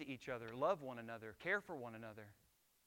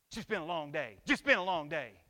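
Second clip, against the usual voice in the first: louder, sighing tired dad; weary father; 10 dB louder than usual. Acted. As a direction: complain of the long day, drained. Tired father comes home.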